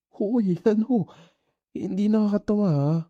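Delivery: loud, high mock-offended yelp; indignant protest. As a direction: fire it back, pretending to be insulted. Teased, protesting he's laughing.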